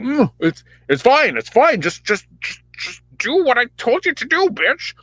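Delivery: high, hammed-up impatient king; put-on Saul voice. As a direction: wave her off in a high mock voice. Saul voiced hushing the witch.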